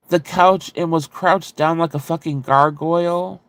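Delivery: normal talking voice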